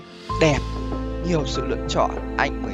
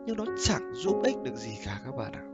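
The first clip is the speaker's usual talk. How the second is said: pillow talk; 10 semitones lower, 17 dB quieter than usual. Real, not acted. Soft closing advice.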